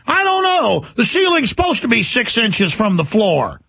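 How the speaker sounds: high, whiny protest sliding back down; imitating a petty objection; mock arguing. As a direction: argue it like a stubborn doubter. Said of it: "people are arguing".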